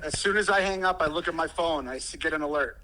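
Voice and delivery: phone speaker. Real, not acted. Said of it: "you're on speaker".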